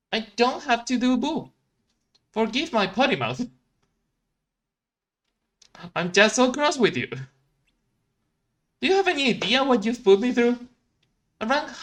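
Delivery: put-on sulky good-boy pout; cross Felix. Felix telling Ralph how cross he is, high and prim.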